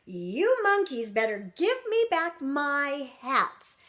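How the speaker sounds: mildly cross hat maker; a touch of storybook indignation; mock scolding. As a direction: scold the monkeys, slowing on the demand. Hat maker wags finger at monkeys.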